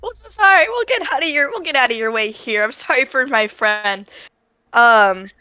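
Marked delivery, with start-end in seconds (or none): 0.0-4.1 flustered apology. Acted. Flustered apology while dragging friend.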